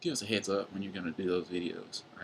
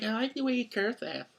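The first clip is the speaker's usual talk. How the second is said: put-on girl voice; 13 semitones higher than usual. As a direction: imitate the girlfriend in a much higher voice. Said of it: "my girl voice in my head".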